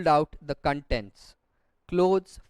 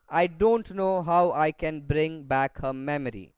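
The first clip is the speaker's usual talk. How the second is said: exasperated voice. Shown as a demonstration. Sister frustrated that Amma forgets Gopi, exasperated. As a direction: sigh it out like a sister worn down. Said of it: "in an exasperated voice".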